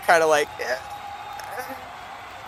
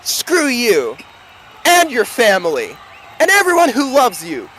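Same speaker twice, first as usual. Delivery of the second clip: demo insult shout; 5 semitones higher than usual. Shown as a demonstration. Game master showing the player how to snap back, shouting. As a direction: hurl the insult and build to a shout. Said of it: "and you say".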